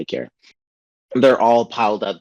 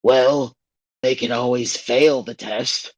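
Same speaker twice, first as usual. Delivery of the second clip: put-on old lady voice; 3 semitones higher than usual. Old CGI lady speaks.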